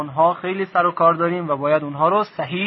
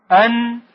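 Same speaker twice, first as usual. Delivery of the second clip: higher, separate parts in «انعمت»; syllable by syllable; 6 semitones higher, 4 dB louder, faster than usual. Shown as a demonstration. Teacher modelling a prayer word, «انعمت» syllable by syllable.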